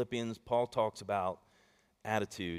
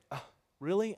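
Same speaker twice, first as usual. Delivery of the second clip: higher, put-upon "do I have to?"; reluctant wife; 7 semitones higher than usual. Retold or imitated. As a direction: imitate a reluctant wife, pitched up. Wife balks at errand.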